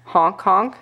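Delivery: playful imitation of a seal honking. Parent shows toddler what seals say, seal honk. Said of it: "That's what the seal says".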